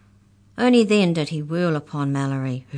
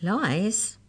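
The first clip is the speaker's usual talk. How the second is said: higher, questioning echo; 5 semitones higher than usual. A narrator's reading. Mallory echoes Molly's accusation, questioning. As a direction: echo it back, rising in disbelief. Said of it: "echoed Mallory".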